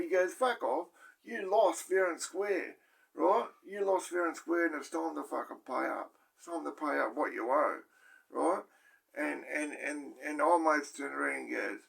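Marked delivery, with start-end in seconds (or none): 0.3-8.6 mimicking an inmate's threatening demand; mock aggressive demand. Retold cell quarrel, demanding debt.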